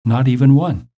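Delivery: mildly mournful storybook lament; a touch of woe, read aloud for a story; sad. A narrator's reading. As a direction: lament it lightly, as a pouting Toad. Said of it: "said Toad sadly".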